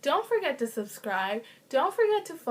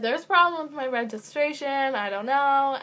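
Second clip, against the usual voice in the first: firmer retelling; 3 semitones higher, 4 dB louder than usual. Retold or imitated. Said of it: "And sorry, I said".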